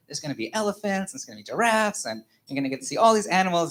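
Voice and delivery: lightly acted parental excitement; parent hyping outing. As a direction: build up the treat for a little kid. Voicing parents hyping outing to son.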